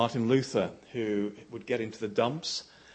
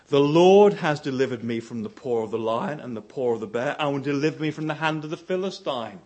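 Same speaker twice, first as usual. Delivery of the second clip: loud proclamation; 7 dB louder than usual. Retold or imitated. Quoting David's declaration of faith.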